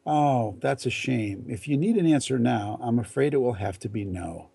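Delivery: gently sorry, yet firm on the no; polite regret with a steady no; apologetic but confident. Shown as a demonstration. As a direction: soften the blow, then hold your ground. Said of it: "you say apologetically and confidently".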